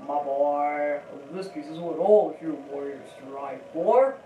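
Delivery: lightly voiced old mentor, holding back a giggle; a hint of a solemn elder; attempted impression voice. Shown as a demonstration. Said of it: "I can't do the accent without trying".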